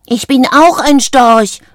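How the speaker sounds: loud, high, slowed exclamation; excited cry. A narrator's reading. Isabella discovering what she is, crying out. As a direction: call it out, stretching each word. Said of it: "rief sie".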